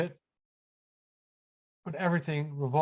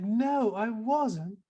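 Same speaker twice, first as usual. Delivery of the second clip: friend's reply; 6 semitones higher, 5 dB louder, much slower than usual. Retold or imitated. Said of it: "It's like".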